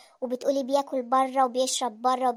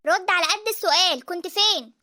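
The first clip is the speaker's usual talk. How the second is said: raised-voice interrogation; angry yelling; 3 semitones higher, 5 dB louder, slower than usual. Acted. Wife demands to know where husband was, angry yelling. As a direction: insist on an answer, mildly heated. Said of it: "مالك بتزعقي كده ليه".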